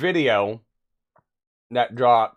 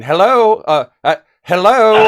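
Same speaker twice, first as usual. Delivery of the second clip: loud calling; 8 semitones higher, 13 dB louder, slower than usual. Retold or imitated. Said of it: "and you're going".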